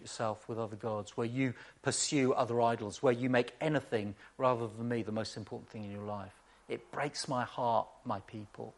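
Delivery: low, soft, grieving appeal; understated heartbreak. Acted. Preacher voicing God to an unfaithful people, quietly heartbroken. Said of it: "experiences the heartbreak".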